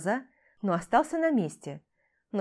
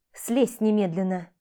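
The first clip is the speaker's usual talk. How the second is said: loud, slow, frightened command; scared order shouted across the drop; urgent shout; 6 dB louder than usual. Acted. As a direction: yell at him to get down now. Girl yells at Kostya on beam.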